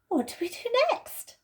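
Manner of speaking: Susan's voice. Acted. Susan, cramped in the wardrobe, complains impatiently. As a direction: voice a fidgety girl stuck in a wardrobe.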